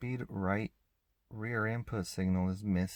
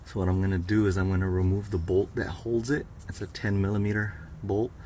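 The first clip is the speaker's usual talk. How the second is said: talking while lying under a car; 4 dB louder than usual. Real, not acted. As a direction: speak from flat on your back under a car. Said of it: "so I'm under the car now".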